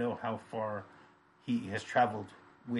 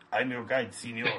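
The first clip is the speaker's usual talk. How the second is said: lightly imitated Spanish accent; heavy Spanish accent. Guide introducing himself to Cedric, mild mock Spanish accent. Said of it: "that was a great one. You do do accents".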